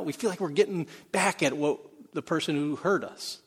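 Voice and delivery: ordinary talk, nothing marked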